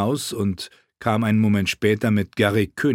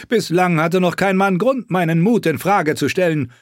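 boastful knight; 8 semitones higher, 4 dB louder than usual. Acted. Knight voiced boldly.

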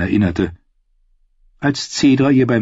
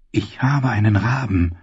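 triumphant. A narrator's reading. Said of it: "dachte Ariane triumphierend".

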